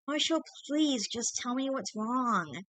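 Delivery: high, slow desperate plea; pleading girlfriend. A narrator's reading.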